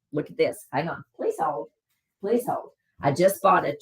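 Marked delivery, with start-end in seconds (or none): 1.1-1.7 very high, quiet playful "Please hold"; sing-song please hold. Pretend. Pausing stream, asks viewers to wait. 2.2-2.7 "Please hold" raised but less high, quiet, rising at the end; softer repeat of please hold. Pretend. Repeats the hold request lower.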